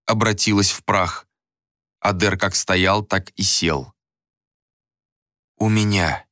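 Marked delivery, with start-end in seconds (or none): 5.6-6.3 understated hoarse reply; weary, rasped words; hoarse croak. A narrator's reading. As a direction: croak it out, spent. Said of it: "прохрипел Адер".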